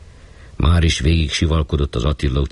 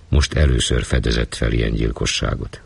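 ordinary delivery

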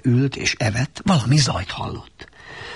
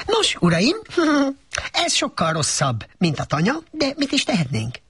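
higher, chuckling little mouse; lightly voiced mouse; 12 semitones higher than usual. A narrator's reading. Mouse explains to his fellows, light and chuckling. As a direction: speak like a little mouse leader.

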